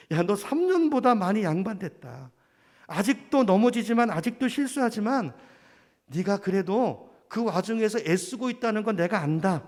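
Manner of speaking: encouraging voice. Retold or imitated. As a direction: gently encourage a struggling friend. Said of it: "저를 격려하고 축복하는 음성".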